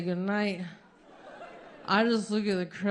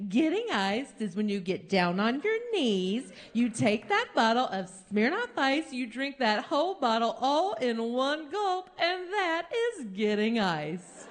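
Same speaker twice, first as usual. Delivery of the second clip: sweet Midwestern woman; 2 semitones higher than usual. Retold or imitated. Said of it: "This very sweet Midwestern woman".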